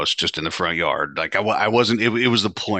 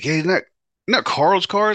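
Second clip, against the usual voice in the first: nosy acquaintance; 11 semitones higher, 4 dB louder than usual. Retold or imitated. Curious acquaintances asking about car.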